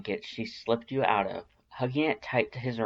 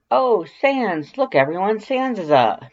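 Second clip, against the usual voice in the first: much higher, louder nervous squeak; change the subject in a panicked high pitch; voice too high; 10 semitones higher, 9 dB louder than usual. A narrator's reading. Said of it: "Your voice is at least two octaves too high".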